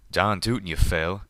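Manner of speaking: loud gruff retort from a pegasus drawling at a friend. Acted. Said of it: "Calamity retorted".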